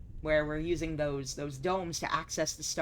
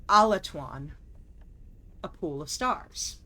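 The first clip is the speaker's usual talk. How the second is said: measured, solemn journal reading; journal narration. Acted. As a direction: read it like a diary entry. Reads game journal aloud.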